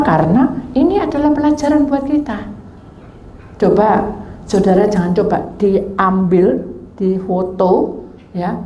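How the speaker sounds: ordinary talk, nothing marked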